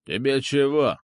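put-on insolent boy's retort; cheeky. A narrator's reading. Fat kid talking back to the older boy, insolent. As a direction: talk back like a rude brat. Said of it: "нагло спросил он".

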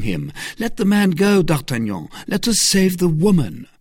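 high, loud, pressing argument; urgent persuasion. Acted. Aramis holding back D'Artagnan, urgent and insistent. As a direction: reason with him urgently. Aramis argues against the chase.

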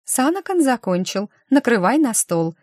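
a hint of a mother calling brightly; high mother's voice. A narrator's reading. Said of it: "прозвенел высокий мамин голос". (слегка высокий звонкий мамин голос)

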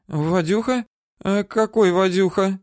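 high, feigned puzzled woman's voice; woman stalling her interrogator; playing dumb. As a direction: ask high, pretending not to know.

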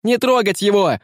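high, loud cry; desperate shout. A narrator's reading. Boy shouts at the pirates to leave the bishop alone. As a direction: shout to stop them. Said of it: "крикнул Франциско".

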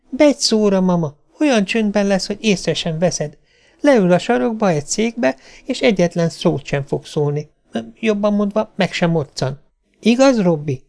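put-on high, eager little-girl voice; pleading child. A narrator's reading. Child keeps pleading with mother.

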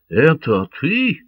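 the corsair stunned to see the Catalan alive; amazed. A narrator's reading. Корсар изумлённо спрашивает. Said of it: "изумился корсар".

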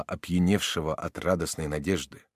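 plain reading voice

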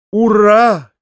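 high, loud triumphant cheer; shouting. Acted. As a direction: cry out hurrah with full force. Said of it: "крикнул другой раз Фома". (громкий торжествующий крик)

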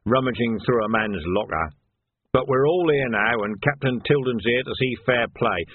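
a hint of oily sergeant; formal request with mild false reluctance; lightly voiced sergeant. Nock asks the captain to search lockers, lightly oily sergeant.

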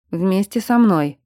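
slow, steady breathing guide; a slow, soothing count-along; calm coaching. A narrator's reading. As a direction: breathe it out slowly with her.

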